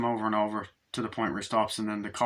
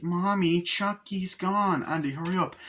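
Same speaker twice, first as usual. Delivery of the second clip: alarmed calling; 8 semitones higher than usual. Retold or imitated. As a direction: call out anxiously, pitched up. Acts frightened child and mother.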